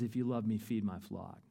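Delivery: Jesus answering Peter, quiet and tender; soft command. Retold or imitated. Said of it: "He says".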